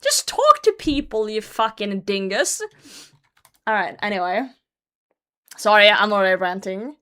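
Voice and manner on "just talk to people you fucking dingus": exasperated. Real, not acted. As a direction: throw it at him in exasperation. Exasperated at the poster.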